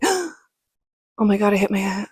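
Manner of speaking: acted-out panic, words tumbling into repeats; gasp, then babble as if freaking out; retold freaking out. Crash victim tells uncle she hit her head, mock freaking out. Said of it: "I'm, like, freaking out".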